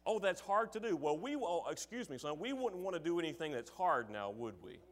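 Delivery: dad's sarcastic smirk, lightly voiced; mock sympathy. Dad teasing his son over a chore, mock-sympathetic. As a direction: tease the son, a touch of fake pity. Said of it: "the sarcastic smirk on his face".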